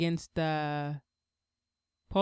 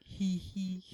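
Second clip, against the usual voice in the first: giggle; 7 dB quieter, slower than usual. Retold or imitated. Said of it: "You would, like".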